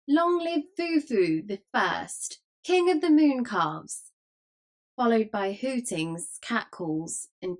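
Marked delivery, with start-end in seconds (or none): 0.1-4.1 high, slow mocking cheer; roaring shout. A narrator's reading. Every throat hails the mock king, roaring shout. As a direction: draw the acclamation out, high and raised. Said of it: "a roaring shout went up".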